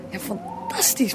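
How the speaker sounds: sudden high, slow gasp of delight; breathless thrill at meeting him; excited. Acted. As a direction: squeal out her excitement. Excited interviewer meets Rasputin.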